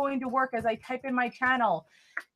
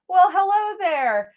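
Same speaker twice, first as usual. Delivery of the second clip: drawn-out, higher, louder "hello there"; sing-song greeting; 6 semitones higher, 6 dB louder, slower than usual. Acted. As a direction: greet him like an old friend, slowly. Greeting a viewer in chat.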